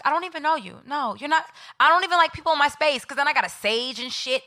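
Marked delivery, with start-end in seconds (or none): 0.0-3.0 sassy retort. Retold or imitated. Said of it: "I was like".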